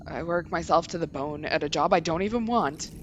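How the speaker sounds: worn down and hopeless; weary man. Acted. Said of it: "I do not do male voices very often".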